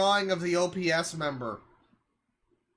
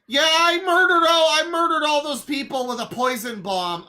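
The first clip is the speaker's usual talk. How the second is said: mock confession; 4 semitones higher, 4 dB louder than usual. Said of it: "And the message is".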